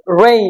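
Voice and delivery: "রেইন" opening on a curled English r; rounded, drawn-in r starting "রেইন"; tongue-curled r. Shown as a demonstration. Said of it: "জিভের সঙ্গে জড়িয়ে কেমন করে যেন".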